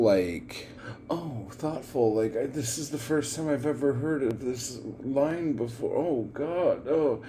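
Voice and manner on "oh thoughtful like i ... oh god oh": high, hammed-up wide-eyed awe, as if hearing each line for the first time; mock dramatic poetry reading. Reactor mocking how the poet performs her poems, high hammed-up awe. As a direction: parody a poet's over-thoughtful reading voice. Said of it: "the way she reads and performs".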